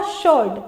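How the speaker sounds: "शोल्ड" with a sh start and no w; silent W. Shown as a demonstration. Teacher giving the pronunciation of sword, "शोल्ड" with silent W. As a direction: say "शोल्ड" low, without any w sound. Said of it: "इसका जो हम लोग pronunciation करते हैं".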